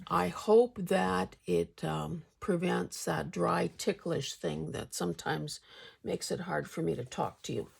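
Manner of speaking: talking around a hard candy; words slurred by a sweet in the mouth; marbles in mouth. Real, not acted. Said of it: "talking with marbles in my mouth".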